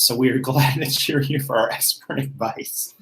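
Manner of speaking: laughing through the words; can't keep a straight face. Real, not acted. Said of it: "I couldn't even get that out without laughing".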